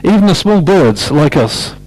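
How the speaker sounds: lively picture-book read-aloud; story reading. Acted. Storyteller reading aloud to children, lively manner.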